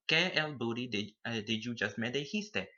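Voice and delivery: dijiste spiced up in a playful Spanglish mix; playful slangy mash-up of ¿Qué me dijiste?; extra flavor. Shown as a demonstration. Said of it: "add in all that, all that extra flavor".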